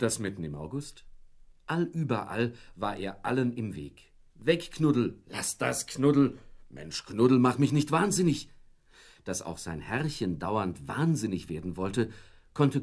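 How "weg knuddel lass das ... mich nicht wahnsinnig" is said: high, loud scolding of the dog; exasperated owner shouting at the dog. Acted. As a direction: shoo the pesky dog away, loud and high.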